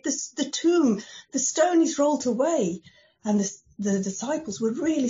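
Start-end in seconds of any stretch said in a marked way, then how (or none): 0.0-2.8 urgent news. Acted. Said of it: "and said".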